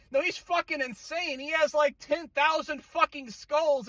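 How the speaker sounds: real disbelief, stretched out; incredulous. Real, not acted. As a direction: spell out how obvious it is. Rebutting the quoted character.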